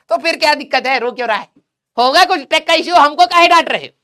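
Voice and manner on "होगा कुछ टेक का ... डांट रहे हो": whiny student. Retold or imitated. Voicing a whining student.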